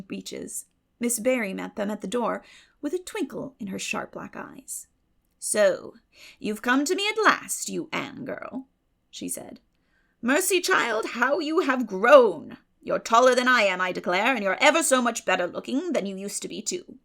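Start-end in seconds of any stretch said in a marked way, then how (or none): 5.4-17.0 a hint of a brisk old aunt, pitch jumping up on the exclamations; lightly voiced old lady. A narrator's reading. Miss Barry greets Anne at her door, lightly voiced brisk old lady. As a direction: lightly play the sharp, twinkling old lady.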